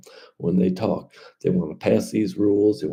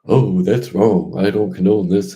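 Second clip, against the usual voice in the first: mock politician; 7 dB louder than usual. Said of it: "they'll say it".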